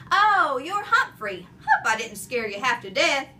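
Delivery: loud, chuckling janitor; laughing. A narrator's reading. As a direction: say it through a laugh. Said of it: "he said with a laugh".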